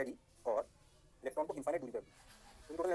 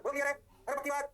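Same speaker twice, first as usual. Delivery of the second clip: louder, higher call to the class; hyped call-out; 9 semitones higher, 4 dB louder, faster than usual. Real, not acted. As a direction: rouse them for an answer. Teacher calls out to the class.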